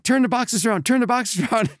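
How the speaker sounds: high, insistent mock order; officer ordering. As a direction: bark it like a fussy official. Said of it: "he's like".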